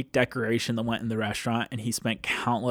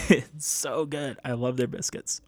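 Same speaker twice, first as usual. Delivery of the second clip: laughing. Real, not acted. Laughing about loved biscuits.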